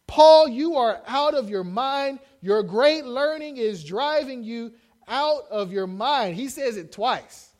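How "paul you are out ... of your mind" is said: slow, loud mock outburst. Festus shouting at Paul in court, slow loud. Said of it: "he said with a loud voice".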